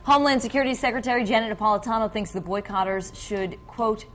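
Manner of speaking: measured news anchor lead-in to a clip; news read. Acted. Anchor quoting the secretary on boycotters, measured news read. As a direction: read the story out, slowing into the quote.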